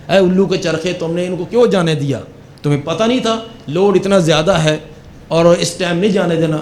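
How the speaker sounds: mildly indignant telling-off; retold angry scolding. Officer scolds his men for letting the trailer go, mildly angry. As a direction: imitate an annoyed boss scolding, without shouting. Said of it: "بڑے غصے سے کہنے لگا".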